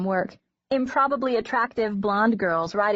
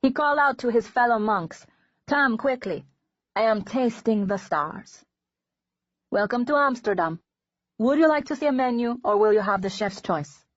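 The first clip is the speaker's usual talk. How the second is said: put-on Dutch accent; 3 semitones higher than usual. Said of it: "a delicious accent".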